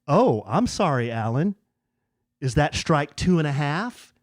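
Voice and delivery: mock-apologetic dig, retold; sarcastic. Chatbot needling its user after a mix-up, sarcastic. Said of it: "it was sarcastic".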